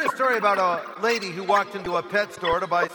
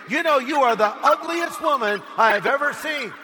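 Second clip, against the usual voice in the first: slightly raised, higher voice for a parrot; emphatic parrot insult; 4 semitones higher, 4 dB louder than usual. Acted. Parrot insulting the shocked woman once more, emphatic and raised. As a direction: rub the insult in boldly.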